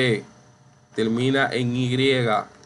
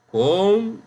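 concurso split con-CUR-so, high and loud on CUR; syllable by syllable; 7 semitones higher, 4 dB louder than usual. Shown as a demonstration. Teacher sounding out concurso, stressed con-CUR-so. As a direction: break concurso in three, punch CUR. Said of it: "la sílaba tónica".

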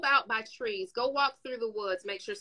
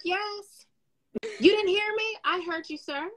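calm customer service voice; 3 semitones higher than usual. Retold or imitated. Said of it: "And I'm like".

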